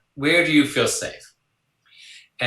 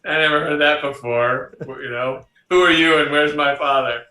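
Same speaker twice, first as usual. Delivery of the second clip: surprised daughter; 3 semitones higher, 6 dB louder than usual. Retold or imitated. Daughter voiced in story.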